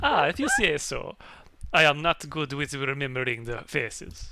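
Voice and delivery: loud, slowing baronial character voice; hammed-up lordly baron. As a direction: brush it off loudly in a put-on voice. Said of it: "do you wanna take over".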